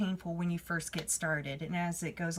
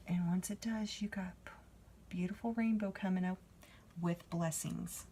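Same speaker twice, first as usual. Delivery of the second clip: hushed; 5 dB quieter than usual. Real, not acted.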